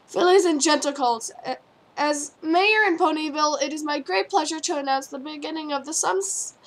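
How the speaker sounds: loud formal announcement; announcing mayor. Acted. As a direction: proclaim it to the crowd. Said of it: "the mayor announced".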